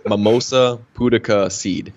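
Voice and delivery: Mimosa pudica seed spelled out slowly, each syllable clear; slow, careful repeat. Shown as a demonstration. Repeating the seed name slowly for the listener, deliberate. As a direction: say Mimosa pudica seed slowly, as if for someone who didn't catch it. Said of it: "He had to say it, like, three times".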